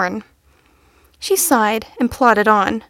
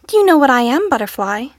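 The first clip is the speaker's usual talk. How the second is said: hopeful; 3 semitones higher, faster than usual. A narrator's reading. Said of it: "the unicorn asked hopefully".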